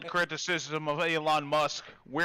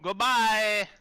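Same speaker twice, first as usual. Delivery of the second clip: fingers flapping on lips; underwater voice; 5 semitones higher, 5 dB louder than usual. Shown as a demonstration. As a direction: underwater burble. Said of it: "If you wanna sound like you're underwater".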